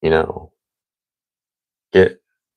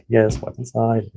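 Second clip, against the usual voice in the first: rude voice; 4 semitones higher than usual. Retold or imitated. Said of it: "such a rude voice".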